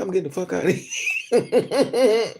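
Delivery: slow, laughing through the man's line; laughing mock man. Retelling a man fleeing his date, laughing. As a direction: chuckle out his exit. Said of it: "He said".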